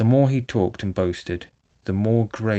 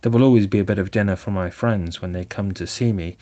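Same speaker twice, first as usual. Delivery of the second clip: Toad resolving. Acted. Toad tells Rat his new plans, contented and eager. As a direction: talk of good intentions like a cheerful reformed Toad.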